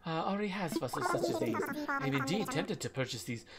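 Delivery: badly faked, formal British voice; attempted British accent. Curator assessing a visitor's fossils, amateur British accent. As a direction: put on a courteous British curator. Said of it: "Trying to do a British accent".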